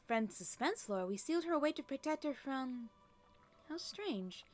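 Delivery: fairy aunt faltering mid-sentence, mildly puzzled; lightly acted fuss, lilting up, then trailing into bafflement; lightly voiced flustered fairies. Fairies explain the sealed door but forget why, mildly flustered.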